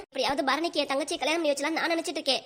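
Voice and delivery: a stern mother-in-law blaming her daughter-in-law; scolding mother-in-law. Acted. Mother-in-law blaming her daughter-in-law for everything, stern. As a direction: lay every household fight at her feet.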